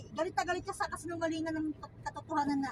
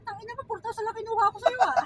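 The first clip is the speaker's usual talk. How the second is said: mock indignant inner voice, a little louder; imagined inner thought; 7 semitones higher, 8 dB louder than usual. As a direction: voice the thief's private scoff. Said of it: "Isip-isip niya". (pagmamaktol na kunwari)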